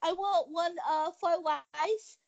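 halting mock Asian accent; hesitant caricatured Asian accent; fake Asian accent. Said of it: "fake Asian accent".

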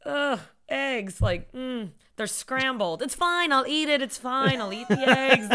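put-on put-upon old man, half-hearted; martyr old man. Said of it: "Eddie Murphy playing an old Jewish man".

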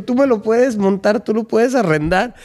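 a light gringo-owner voice; imitating Leonard. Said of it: "Leonard dijo".

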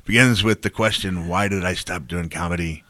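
a hammed-up, bad Irish brogue; lightly put-on Irish accent, badly done; imitating an Irish comic in a terrible Irish brogue. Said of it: "it's a terrible brogue".

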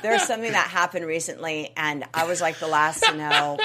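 laughing through the words, amused at herself. Real, not acted. To the host, sheepishly laughing about always being last to know. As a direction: chuckle as you confess it. Laughing while admitting she's clueless.

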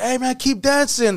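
high, slow mock call to performers; imitated urging. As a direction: act out a director egging the band on. Crew retold calling to band.

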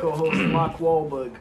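put-on Boston accent. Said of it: "so I can do an accent".

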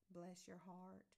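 gently sweet Southern blessing. Acted. Older Southern woman blessing someone, lightly sweet. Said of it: "in such a sweet Southern way".

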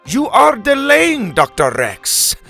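high, slow, loud accusation; impatient shout. A narrator's reading. Helga calls out to stalling Doctor Rex, impatient shout. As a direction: call it out from the back, stretched. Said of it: "Helga Bronson shouted from the back".

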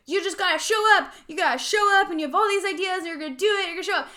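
high inner cheerleader urging herself on; pushy inner voice. Retold or imitated. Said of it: "part of me is like".

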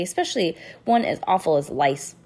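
usual speaking voice

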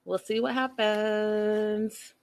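slow, drawn-out teasing line; ominous tease. Shown as a demonstration. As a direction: stretch it out with suspense. Repeated ominously.

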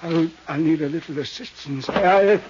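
faint, halting words of a shot man; dying groans. Acted. Shot old thief pleading with the detective, fading. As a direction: gasp it out weakly, fading.

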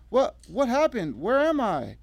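high, slow, stammering bewilderment; panicked confusion. A narrator's reading. Revived Emily asking where she is, panicked. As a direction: come round disoriented and panicking. Revived woman disoriented, vomiting.

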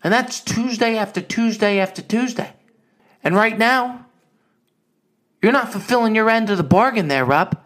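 a touch of a stern mother; mom's lecture. Retold or imitated. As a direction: lecture him about the commitment. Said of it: "She goes".

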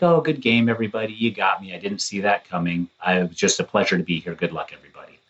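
soft, gracious goodbye fading away; bow out gently; gracious farewell. Retold or imitated. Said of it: "He was like".

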